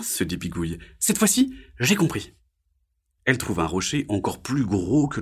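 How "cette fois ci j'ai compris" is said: high frog character voice; little frog. Acted. Frog to herself after lesson, high character voice. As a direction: pitch it up as a small frog.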